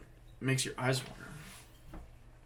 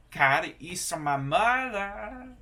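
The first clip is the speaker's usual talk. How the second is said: slow, higher, louder English with a Norwegian lilt; Norwegian accent; 6 semitones higher, 6 dB louder, slower than usual. Retold or imitated. Learner repeats the sentence in a Norwegian accent. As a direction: sing the English like a Norwegian would. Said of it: "saying the English with the Norwegian accent".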